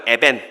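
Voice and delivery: "에벤" said loudly as a model to repeat; Hebrew pronunciation demo. Shown as a demonstration. Preacher has listeners repeat a Hebrew word, loud clear "에벤". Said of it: "따라해볼까요?".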